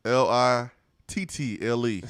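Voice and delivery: slow, letter by letter L I T T L E; deliberate spelling. Shown as a demonstration. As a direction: spell it out slowly to make your point. Spelling out the word in rebuttal.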